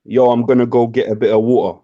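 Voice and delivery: plain British accent model line. Shown as a demonstration. British streamer giving friend a line to copy, British accent. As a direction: demonstrate a British street accent. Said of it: "Can you do a British accent?".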